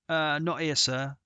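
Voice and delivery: a caddie's flat emphatic refusal. Acted. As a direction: shut the idea down hard. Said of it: "The answer was emphatic".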